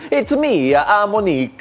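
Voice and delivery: stereotypical Italian accent, hammed up; bad Italian accent. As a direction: put on a cheesy Italian accent for Monique. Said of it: "the worst Italian I could do".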